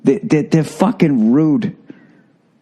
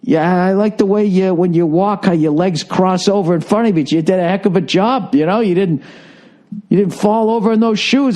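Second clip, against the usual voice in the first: higher-pitched, friendly mock praise; pretend polite compliment; 6 semitones higher than usual. Comic imagining himself complimenting models backstage, mock politeness. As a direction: act out being nice about the show. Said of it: "nice enough to be like".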